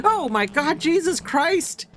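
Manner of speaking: high shrieking mock panic. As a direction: shriek it like a scared viewer. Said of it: "Now you might think".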